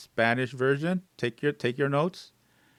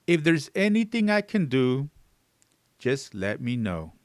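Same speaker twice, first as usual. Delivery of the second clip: sincere. Shown as a demonstration. Teacher shows learners how to offer help after bad news, sincerely. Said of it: "you could say it sincerely".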